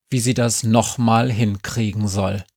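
plain reading voice

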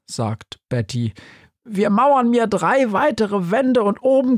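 high little mould voice; Betty's voice. Acted. Betty erzählt Günther vom Haus, hoch und fröhlich. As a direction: speak up high and chirpy.

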